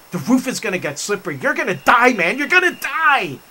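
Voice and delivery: imitated panicked warning, rising high and loud; freaking out. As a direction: build from quick worry to loud alarm. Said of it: "they all kept freaking out".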